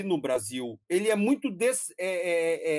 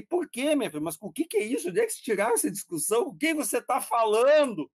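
higher-pitched, retold incredulous questioning; incredulous father; 6 semitones higher than usual. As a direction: act out a baffled parent firing questions. Father's baffled reply, acted out.

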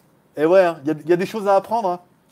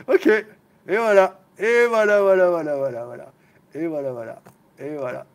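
laughing through words; 4 dB louder than usual. Real, not acted. Recovering from laughter.

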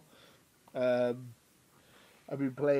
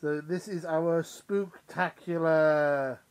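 spooky announcer; 4 dB louder, much slower than usual. Pretend. Halloween episode announcement.

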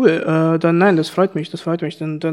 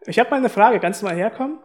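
raised voice, calling to the next room; yelling across the room; 5 semitones higher than usual. Real, not acted. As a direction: call him over from afar. Calling friend from another room. (laut durchs Zimmer rufen)

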